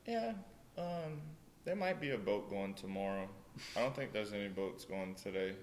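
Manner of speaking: imitating an unhurried, noncommittal villager; offhand, hesitant shrug of an answer; casual. Villagers answering a plea for stitches, casually. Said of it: "It's, like, casual".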